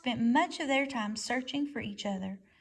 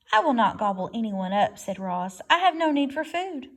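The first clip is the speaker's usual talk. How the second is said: robot voice; 6 dB louder than usual. Acted. Robot reassures.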